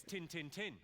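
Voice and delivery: dialect "tin, tin, tin" in Yorkshire accent. Shown as a demonstration. Comedian showing off a favourite Yorkshire phrase, Yorkshire accent. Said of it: "My favourite Yorkshire phrase is".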